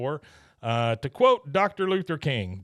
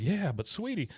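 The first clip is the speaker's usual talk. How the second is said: Buck; 6 semitones higher, 4 dB quieter than usual. Retold or imitated. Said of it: "Buck says".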